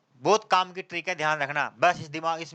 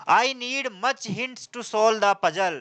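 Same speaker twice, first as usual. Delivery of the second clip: very slow, word by word; slow example read; 3 semitones higher, much slower than usual. Shown as a demonstration. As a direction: read the example sentence out slowly for the class. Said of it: "teacher reading example slowly". (धीरे धीरे उदाहरण पढ़ना)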